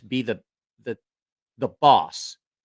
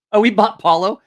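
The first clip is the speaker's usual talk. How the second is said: usual speaking voice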